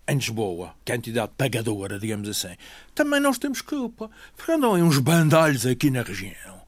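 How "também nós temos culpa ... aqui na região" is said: high, loud, outraged tirade; indignant rant. Real, not acted. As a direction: vent your outrage at the cheats. Indignant rant about fraudsters.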